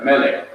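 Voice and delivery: "Melek" stressed on its first syllable. Shown as a demonstration. Teacher models pronunciation for student, first syllable of "Melek" stressed. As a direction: put the accent on the start of "Melek". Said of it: "The accent is on the first syllable".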